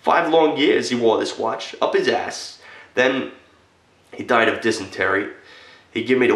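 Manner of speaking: impassioned, fiercely proud retelling; indignant fervor. Acted. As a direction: build in heat and pitch to an emphatic peak. Heated account of hiding the watch.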